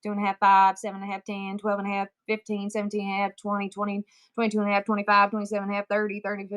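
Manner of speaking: steady, even-pitched counting chant; numbers-only auctioneer count. Shown as a demonstration. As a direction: run up the numbers without filler. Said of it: "just numbers".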